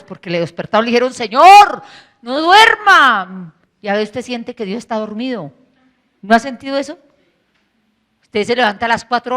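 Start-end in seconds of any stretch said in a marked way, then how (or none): 1.1-3.5 panicked plea. Acted. Disciples waking Jesus in panic.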